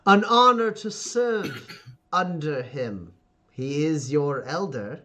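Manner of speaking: lightly voiced commanding patriarch, slowing down; stern father. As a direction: correct a child with measured authority. Father corrects his daughter.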